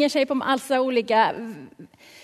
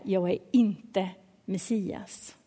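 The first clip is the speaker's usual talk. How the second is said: slow, measured denial, "inte" set apart; lower, slow close with a pause after "inte"; super-clear; 4 semitones lower, 3 dB quieter, slower than usual. Retold or imitated. John closes his answer on who he is, slow and clear on "inte". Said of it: "han är supertydlig över en enda sak".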